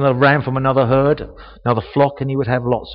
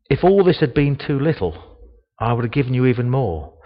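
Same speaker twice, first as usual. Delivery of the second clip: calm tone. Shown as a demonstration. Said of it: "he said it in a calm tone".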